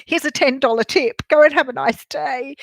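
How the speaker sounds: overly polite. Retold or imitated. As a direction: gush apologetically at a mistreated customer. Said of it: "I become overly polite too".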